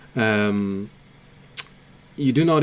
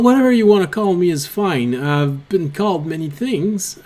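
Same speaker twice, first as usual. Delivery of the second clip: lightly voiced kobold, wry then eager; understated kobold, self-deprecating then keen; kobold Grim. GM voicing kobold naming himself.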